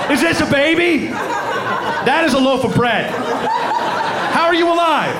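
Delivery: high, goofy dog voice; a proud dumb dog showing its find; dog with baby. Acted. Dog and fireman in burning house.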